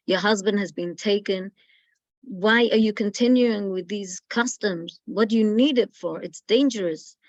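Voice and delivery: a school official threatening the grandmother; harsh scolding. Retold or imitated. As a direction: berate her like a hostile official. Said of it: "Excuse me, no expression".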